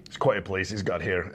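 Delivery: a hint of a Scottish film character; Scottish accent. Actor quoting a line cut from script, light Scottish accent. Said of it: "I worked on my Scottish accent".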